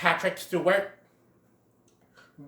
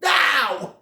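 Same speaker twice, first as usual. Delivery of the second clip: much higher, louder command; commanding shout; 10 semitones higher, 9 dB louder than usual. Retold or imitated. Great Prince forcing Bambi to run, shouted command. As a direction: order him to move. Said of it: "push aside the snow and say".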